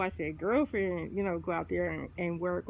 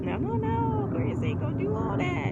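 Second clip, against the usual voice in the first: mock dismissal; 13 semitones higher than usual. Mocking Aquarius dismissal.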